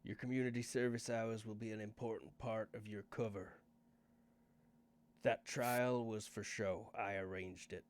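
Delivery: lightly voiced Northern English boss; a touch of a Northern English accent, unhurried. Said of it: "Garth's suddenly English and Northern".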